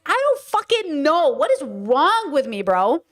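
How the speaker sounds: high, frantic self-mockery; panicking over the scratched trucks; exasperated panic.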